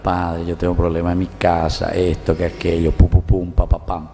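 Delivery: low, monotone list of troubles; mock litany of complaints. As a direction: imitate a parishioner droning through problems. Retold parishioner rattling off problems. (imitando una retahíla de quejas)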